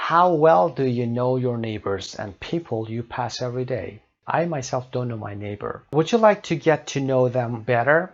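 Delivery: slow, deliberate English read-out; measured classroom reading; teacher reading aloud. Acted. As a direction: read it out slowly for learners. Reads textbook questions aloud.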